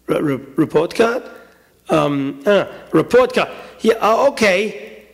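halting, stammered reluctance; hesitant, uneasy stammer; nervous stalling. Acted. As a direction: play dumb, caught out. Boy stalls, caught by mother.

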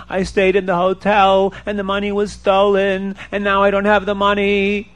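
mildly plaintive singsong complaint; worried buyer bemoaning his lot; distressed lament. Acted. Robbed buyer laments in story.

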